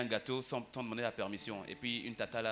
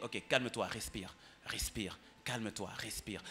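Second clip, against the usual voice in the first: slow, softer soothing voice; coaxing a sobbing kid to breathe; soothing calm-down; 2 semitones lower, 4 dB quieter, slower than usual. Retold or imitated. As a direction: settle a crying child gently. Father calming crying daughter.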